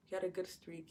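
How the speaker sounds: a full-voiced "He had a good streak"; firm restatement. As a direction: say it out, landing down on streak. Repeats the phrase, now firm.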